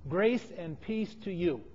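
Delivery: soft, slow greeting to fellow believers; quiet, unhurried pastoral blessing; gentle greeting. Acted. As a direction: offer it gently, taking your time. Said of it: "but to fellow Christians".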